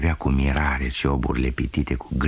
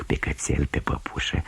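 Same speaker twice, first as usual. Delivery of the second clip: ashamed whisper; 4 semitones lower, 5 dB quieter than usual. Acted. Girl confessing to herself.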